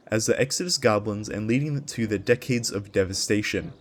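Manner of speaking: epic trailer-style storytelling voice; dramatic lore narration. Acted. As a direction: read it like the opening of a fantasy saga. Reads the lore intro aloud.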